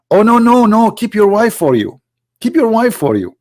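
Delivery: high-pitched, hammed-up refusal; mock protesting. Prophet telling his son not to divorce, mock protesting.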